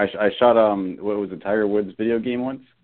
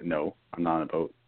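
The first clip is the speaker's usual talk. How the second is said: talking softly; 2 semitones lower, 6 dB quieter than usual. Real, not acted. Caller answering the hosts' questions about where he is, talking softly. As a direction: answer softly, keeping the volume well down. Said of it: "why are you talking so soft".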